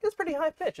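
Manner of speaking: high, bright service-desk voice; customer service voice. Shown as a demonstration. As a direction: sound like you're at a help desk. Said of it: "very influenced by my customer service voice".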